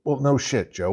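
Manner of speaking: sarcastic jab at the president; sarcastic retort. Real, not acted. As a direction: scoff right back at him.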